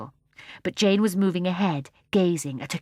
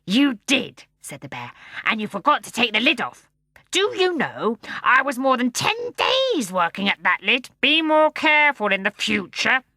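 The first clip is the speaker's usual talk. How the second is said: gruff bear voice; 4 semitones higher, 5 dB louder than usual. Acted. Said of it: "gruff voice".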